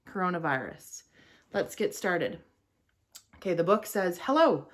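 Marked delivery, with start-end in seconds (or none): 4.2-4.7 high bright greeting as the virus; cute germ voice. Pretend. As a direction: say hello like a cute little germ. Virus introduces itself in book.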